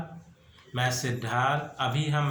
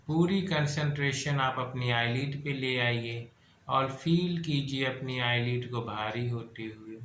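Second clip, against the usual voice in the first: measured, repetitive hypnotic cadence with stretched key words; guided meditation. Acted. Guide relaxing listeners' breath, body and eyelids, measured meditation voice. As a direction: lull them into relaxation, phrase by steady phrase.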